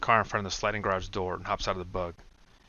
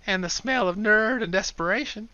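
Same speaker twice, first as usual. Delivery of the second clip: mumbled jab; 12 semitones higher, 5 dB louder than usual. Acted.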